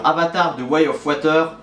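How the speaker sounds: English film title with French sounds; French-accented English. Real, not acted. Reviewer bad at English naming the top film, French accent. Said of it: "j'ai déjà dit que j'étais nul en anglais".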